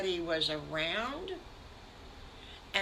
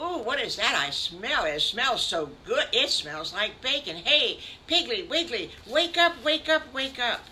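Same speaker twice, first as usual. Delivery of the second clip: louder and higher, building to calling out wake up; excited piglet; 6 semitones higher, 6 dB louder than usual. Acted. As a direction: rouse your brother with eager excitement. Piglet smells bacon, wakes brother.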